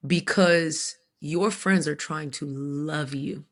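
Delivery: slow, deliberate imitation of a counselor; measured counselor's explanation; gentle counselor. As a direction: gently spell it out like a therapist. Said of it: "my counselor gently was like".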